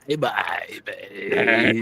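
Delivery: a light imitation of her casual real voice, drawn out on baby; imitating her real voice. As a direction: lightly mimic how she really talks. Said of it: "She sounds like".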